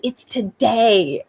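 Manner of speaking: mildly excited child imitation, drawn out. Mom quoting her excited little girl, mildly excited. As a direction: stretch it out with a touch of toddler wonder. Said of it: "she's so excited".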